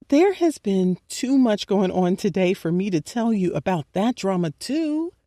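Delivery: whiny. Acted. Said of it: "I whined".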